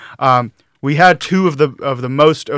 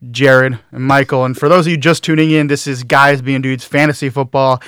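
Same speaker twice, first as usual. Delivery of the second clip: ordinary delivery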